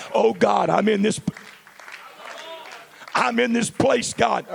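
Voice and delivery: high, loud desperate plea; screaming at God. Retold or imitated. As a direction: scream it up to heaven in distress. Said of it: "You don't have to scream at God".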